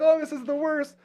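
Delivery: high, hammed-up dismay; mortified wail. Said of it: "so embarrassed".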